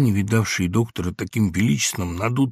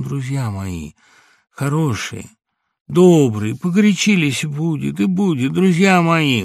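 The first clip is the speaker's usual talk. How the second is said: tender, trembling; 4 semitones higher, 6 dB louder than usual. A narrator's reading. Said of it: "забормотал ласковым, дрожащим от волнения голосом".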